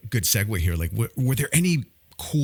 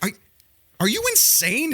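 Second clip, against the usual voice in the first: incredulous; 13 semitones higher than usual. Retold or imitated. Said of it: "I'm like".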